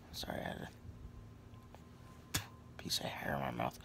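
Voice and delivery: a hushed apology while pulling hair from the mouth; whispered aside. Real, not acted. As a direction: breathe it out under your breath.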